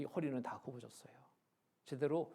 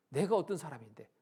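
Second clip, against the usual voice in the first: mock-offended, louder challenge; retold indignation; 7 dB louder than usual. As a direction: imitate an affronted grandmother. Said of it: "막 역정을 내셔요". (발끈하는 할머니 흉내)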